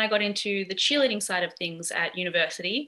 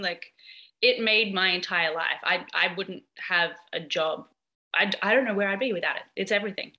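numb from the dentist. Real, not acted. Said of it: "This half of my face is numb".

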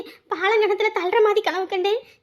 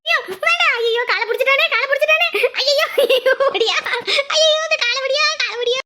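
wailing in sleep; 2 semitones higher than usual. Acted. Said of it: "இப்படி அலறிட்டு இருக்கு".

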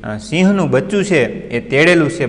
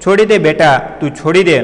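put-on higher, louder call to the child to let go; a mother pleading loudly from a distance; mother calls to her son to drop the cub, loud and high; 5 semitones higher, 4 dB louder than usual. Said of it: "પોતાના બાળકને કહે છે કે".

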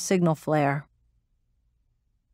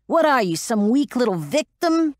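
taunting shout; 6 semitones higher than usual. Acted. Metz goading the pilot up the ramp, taunting shout. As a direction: goad her with scorn.

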